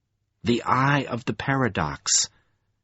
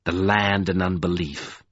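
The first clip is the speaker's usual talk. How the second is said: jeering; 6 semitones lower than usual. A narrator's reading. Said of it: "he jeered".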